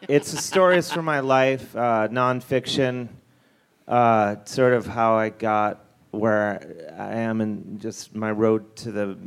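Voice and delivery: loose, slightly slurred tipsy speech. Real, not acted. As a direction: talk like you've had a few drinks. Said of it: "I'm so hammered right now".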